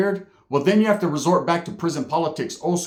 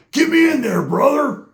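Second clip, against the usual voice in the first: high pitched yelled begging, higher and louder; mock shouted plea; 11 semitones higher, 6 dB louder than usual. The wood shouting to the crew to let him in, high and loud. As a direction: yell it like an eager new guy begging in.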